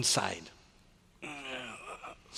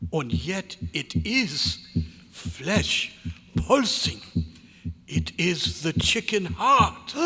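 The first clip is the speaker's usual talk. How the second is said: rising horror; 3 semitones higher, 4 dB louder, slower than usual. Acted. Doctor realises the horror.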